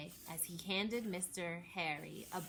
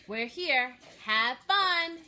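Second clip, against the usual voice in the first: cheerful drop-off; 6 semitones higher, 12 dB louder, slower than usual. A narrator's reading. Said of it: "said Gigi".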